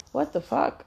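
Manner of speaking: hushed whisper of disbelief. Retold or imitated. Telling a friend about the rent upcharge, whispered disbelief. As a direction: breathe it out in shock, voiceless.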